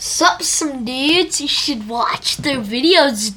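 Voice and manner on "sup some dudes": surfer dude. Acted. Kid doing surfer dude voice.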